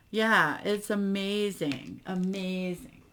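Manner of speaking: slow, loud, dripping sarcasm; sarcastic. Real, not acted. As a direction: say it like you don't mean it at all. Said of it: "I'm totally being sarcastic".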